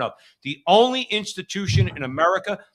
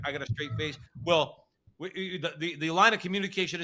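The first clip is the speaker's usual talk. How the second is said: the same mock line, much softer, almost under the breath; quieter mock of the mayor; 5 dB quieter than usual. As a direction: mutter the parody as a throwaway. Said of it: "He says".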